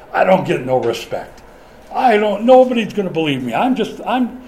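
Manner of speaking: a hint of whiny comic complaint; Rodney Dangerfield impression. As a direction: Moses griping like a stand-up. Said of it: "in his best Rodney Dangerfield voice".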